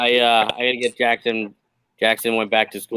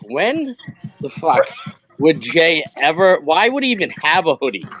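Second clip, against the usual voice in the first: incredulous inner voice; 4 semitones higher than usual. Retold or imitated. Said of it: "I'm like".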